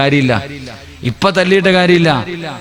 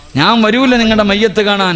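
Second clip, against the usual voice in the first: higher-pitched defiant voice. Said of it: "ഇതാ മകള്".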